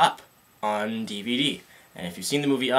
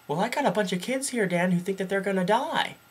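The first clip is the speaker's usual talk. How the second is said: high mock-whiny caller voice; lightly voiced fussy caller, raised pitch; imitating the caller; 7 semitones higher, 3 dB quieter than usual. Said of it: "caller complains about kids".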